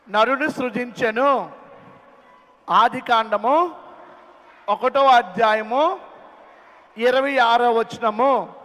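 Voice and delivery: slow, measured reading of a Bible verse; scripture recitation. Shown as a demonstration. Teacher reciting the verse slowly for the children to learn. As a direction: recite it like a sermon, word by word. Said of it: "ఏ వాక్యం నేర్పించాలో తెలుసా?".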